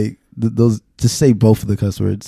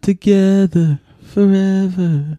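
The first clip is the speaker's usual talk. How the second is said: high, slow singsong; 10 semitones higher, much slower than usual. Acted. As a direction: drag it out high and sweet. Teasing echo of partner.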